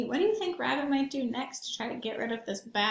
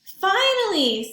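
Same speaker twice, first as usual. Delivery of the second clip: friends' chorus; 9 semitones higher, 8 dB louder, much slower than usual. Acted. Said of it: "said all of Big Rabbit's friends".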